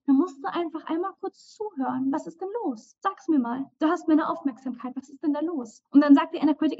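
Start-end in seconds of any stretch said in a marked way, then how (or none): 2.1-5.8 gentle soothing. Pretend. Soothing her own anxious inner voice.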